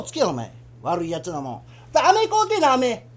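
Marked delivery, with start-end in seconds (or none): 1.9-3.1 put-on high childish pleading; child begging. Boy begging father for candy, high childish whine.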